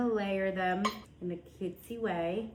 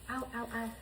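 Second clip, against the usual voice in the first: pained ow; 3 semitones higher, 5 dB quieter, faster than usual. Real, not acted. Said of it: "That hurt".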